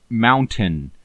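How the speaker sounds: "mountain" with a fully sounded T; over-enunciate the T in "mountain"; hard T in mountain. Shown as a demonstration. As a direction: release the T clearly in "mountain". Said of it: "T like that".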